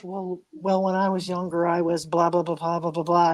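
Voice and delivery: low, deadpan retelling; Bobby Lee. Retold or imitated. Retelling a comedian's serious story about his younger days, deadpan. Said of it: "He can really play straight face".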